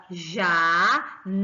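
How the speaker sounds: janela very slow, NE loud and long; stress on middle syllable. Shown as a demonstration. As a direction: split janela into beats and push hard on NE. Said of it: "a professora levanta a voz".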